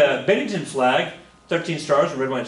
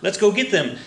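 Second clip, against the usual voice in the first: mock British soldiers; 8 semitones higher, 3 dB louder than usual. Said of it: "the British force are like".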